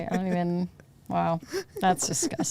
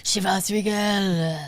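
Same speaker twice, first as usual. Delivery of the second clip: slow mock ad voice; ad voiceover; slower than usual. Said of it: "the commercials for this shit".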